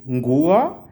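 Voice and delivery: "nguo" said slowly as ngu-o, two syllables; slow "nguo", ng then u-o; careful nguo. Shown as a demonstration. Teacher modeling a word for students, slow and careful. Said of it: "those are two syllables".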